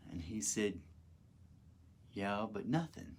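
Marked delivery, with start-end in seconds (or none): 2.1-3.2 much softer, calm and unbothered. Retold or imitated. Jesus answering him, calm and much softer. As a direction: brush it off gently. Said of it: "In the most calmest fashion".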